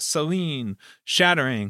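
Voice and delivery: ordinary talk, nothing marked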